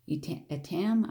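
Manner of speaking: trying out "Etam", second time as "eh-TAM"; tentative "Etam", ending in TAM; unsure pronunciation. Shown as a demonstration. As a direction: sound out "Etam" two ways, unsure. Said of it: "I don't know how you pronounce it".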